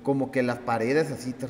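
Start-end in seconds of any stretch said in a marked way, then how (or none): 1.3-1.5 a buzzing rolled r like a vibrating wall; rolled trill vibration. Retold or imitated. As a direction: trill it to mimic the tremor.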